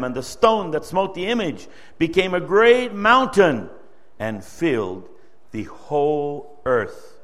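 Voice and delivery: solemn, measured Bible reading voice; scripture reading. Acted. Preacher reading Daniel aloud to the standing congregation, solemn and measured. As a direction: read it like holy writ, each phrase weighed.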